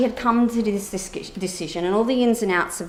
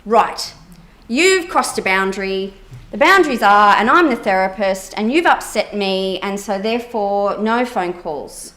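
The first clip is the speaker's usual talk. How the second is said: a hint of a stern therapist laying down the law, louder and slow; mock stern therapist; 5 dB louder, slower than usual. Therapist imitating the stern reply she chose not to give her client, louder. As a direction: lightly play the strict therapist setting a boundary. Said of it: "I didn't go".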